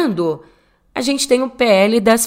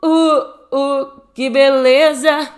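mock cheer; 5 semitones higher, slower than usual. Mock celebration.

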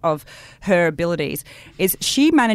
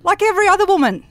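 laughing; 5 dB louder, faster than usual. Real, not acted. Laughing reply, high and fast.

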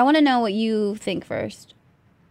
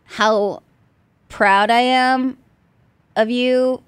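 sincere, slow; 3 semitones higher, much slower than usual. Real, not acted. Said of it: "can I just say".

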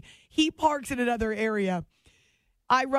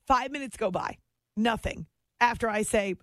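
ordinary talk

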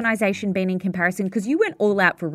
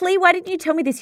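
mock complaining friend; 9 semitones higher, faster than usual. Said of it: "yeah, I'm like".

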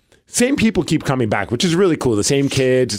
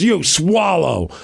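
slow, drawn-out comeback, a bit higher; retorting wrestler; 4 semitones higher, much slower than usual. Retold or imitated. Wrestler firing back at a heckling kid, slow retort. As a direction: stretch out the mock retort. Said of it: "And he goes".

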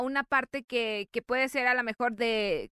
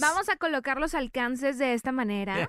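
mock fresa talk. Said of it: "empieza a hablar fresa".

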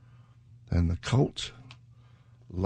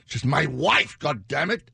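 movie quote; 5 semitones higher, 3 dB louder than usual. Retold or imitated.

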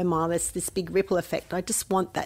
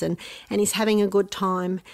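bubbly little voice. Retold or imitated. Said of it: "this little bubbly voice comes".

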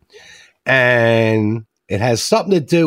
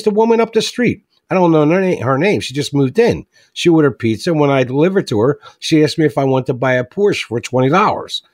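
put-on teen voice; 4 semitones higher than usual. Joke teller voicing the teen telling about the neighbor. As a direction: rattle it off like an excited kid. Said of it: "He goes".

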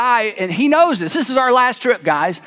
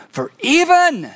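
slow emphatic; 6 semitones higher, slower than usual. Acted. Jesus' solemn closing line.

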